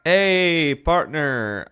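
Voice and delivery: put-on old-time mid-Atlantic accent. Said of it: "like, a mid-Atlantic accent".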